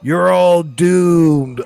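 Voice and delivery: slow, loud ominous warning; Crazy Ralph warning. Retold or imitated. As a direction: drawl it like a doomsayer. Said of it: "a crazy Ralph going like".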